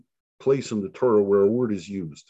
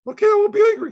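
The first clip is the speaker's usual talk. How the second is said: mild, much higher voiced God conceding; God giving in gently; 7 dB louder, much faster than usual. God answers Abraham's plea.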